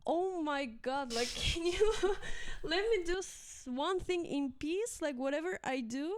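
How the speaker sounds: high, fast exasperated rant; mock exasperation, laughing. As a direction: vent like a fed-up teacher, voice climbing.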